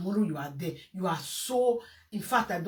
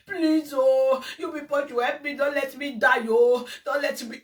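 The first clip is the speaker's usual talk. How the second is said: mock begging; 3 semitones higher, 3 dB louder than usual. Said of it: "You were begging endlessly".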